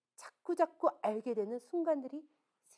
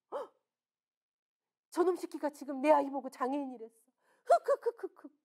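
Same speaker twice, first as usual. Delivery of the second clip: hammed-up sob; 2 semitones higher than usual. Mother hearing her child called disabled, hammed-up sobbing. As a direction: play a shocked mother's fake sobs.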